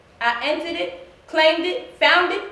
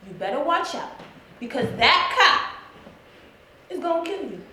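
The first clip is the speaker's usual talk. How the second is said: retold warning. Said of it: "But I told Christina".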